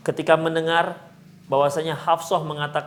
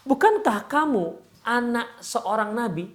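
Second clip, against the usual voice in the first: slow, higher-pitched reassuring question; retold encouragement; 5 semitones higher, slower than usual. Husband reminding wife of her lineage, encouraging. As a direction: lift up a downcast listener, unhurried. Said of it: "membesarkan hati Sofia".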